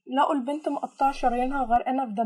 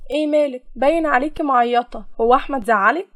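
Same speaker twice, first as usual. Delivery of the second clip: louder, slyly inquisitive questioning; sly probing; 7 dB louder than usual. Acted. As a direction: needle her with mock concern. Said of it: "سألتها سارة بخبث". (بخبث وفضول)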